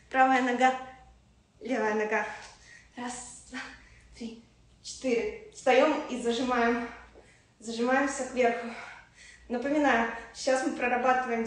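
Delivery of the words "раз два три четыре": soft, strained rep count; counting workout reps. Real, not acted. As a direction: count the reps under your breath mid-exercise. Counting reps during plank exercise.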